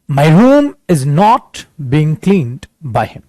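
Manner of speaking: very slow, each word spaced; slow dictation. Shown as a demonstration. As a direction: read the sentence out slowly for copying. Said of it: "अब perfect बनाए बेटा". (धीरे-धीरे वाक्य बोलना)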